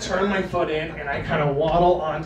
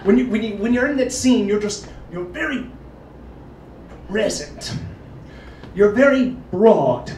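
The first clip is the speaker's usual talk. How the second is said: director's note; 5 semitones higher, 3 dB louder than usual. Retold or imitated. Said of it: "my director will say things to me like".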